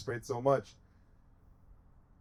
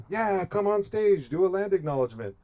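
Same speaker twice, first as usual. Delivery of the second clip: mock invitation; 4 semitones higher than usual. Officials asking for a land acknowledgement, lightly mocked. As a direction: mimic a hollow invitation, without shouting.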